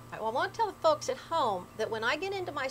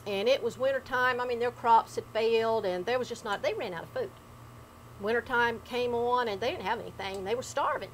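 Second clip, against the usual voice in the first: appalachian storytelling. Acted. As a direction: spin it like an old ghost tale. Grandpa's haint tale told in dialect.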